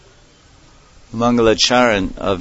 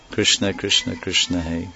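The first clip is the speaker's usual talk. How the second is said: softer and softer calls of the name; yearning call; 5 dB quieter than usual. Acted. Radharani calling her lost beloved, quietly longing. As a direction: let the calls fade into longing. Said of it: "This is Radha Bhav, the mood of separation".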